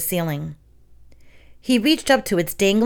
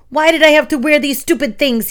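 high, louder wail; frustrated cry; 7 semitones higher, 5 dB louder than usual. A narrator's reading. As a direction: cry out while running. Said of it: "he cried".

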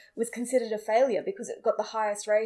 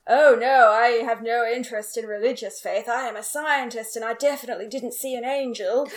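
lightly acted protest with a loud 'Oh no' up front; a hint of an earnest scientist's denial; Michael impression; 6 dB louder than usual. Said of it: "really good Michael impression".

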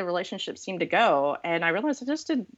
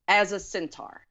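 "as a centaur" after a held pause, deliberate; slow punchline. Shown as a demonstration. Revealing the centaur painting, slow deliberate punchline. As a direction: let "as a centaur" land slowly, each word separate. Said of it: "I had to say that slowly".

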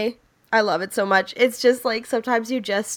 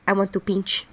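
lightly voiced crab, soft and low; a little crab plotting mischief; a hint of a sly crab; 4 semitones lower, 4 dB quieter than usual. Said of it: "The crab just like".

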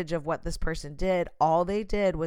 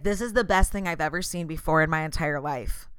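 gushing flatterer; 3 semitones lower than usual. Retold or imitated. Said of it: "do not be a flatterer".

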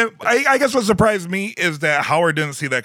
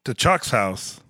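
announced smash cut; much slower than usual. Pretend. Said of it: "You can say smash cut".

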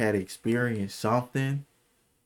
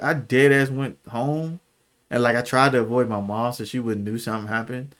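ordinary talk

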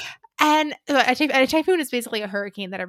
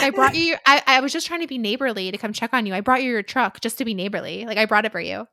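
fast, louder, flustered babble; Alexis voice; 2 semitones higher, 5 dB louder, faster than usual. Retold or imitated. Piper excusing herself to Brendan, a light Alexis-style gush. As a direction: rush it out like a flustered socialite. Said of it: "So, like, Alexis from Schitt's Creek".

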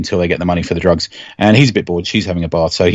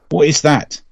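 mock alarm; 7 semitones higher than usual. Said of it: "a dramatic reading of".

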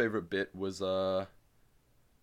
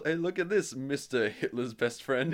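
raised, drawn-out jeering call; mock taunt; 4 semitones higher, 4 dB louder than usual. Moonshiner heckling a runaway, mock taunt. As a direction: call out a silly nickname to jeer someone.

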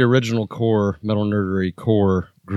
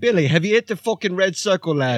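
high, shouty bossy bloke yelling at the lads; Archie character voice; 10 semitones higher than usual. Acted. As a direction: bark orders at the crew in a high put-on voice. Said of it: "This is Archie".

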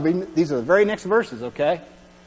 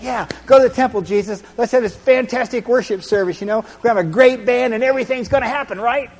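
excited crowd; 5 semitones higher, 4 dB louder than usual. Retold or imitated. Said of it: "It's like".

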